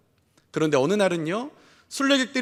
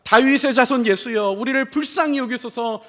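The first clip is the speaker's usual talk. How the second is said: mildly raised voice, imitating a plea; imitated crying out; 2 semitones higher, 3 dB louder than usual. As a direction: call out like beggars pleading for mercy, half-strength. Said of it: "뭐라고 소리 지릅니까". (소리쳐 애원하는 흉내)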